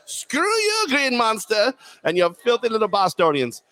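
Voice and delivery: high, cackling mock taunt; mock-gloating shout at Boston; gleeful taunt. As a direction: crow over the rival with a laugh.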